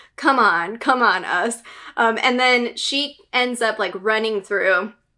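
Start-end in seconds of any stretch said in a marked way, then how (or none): none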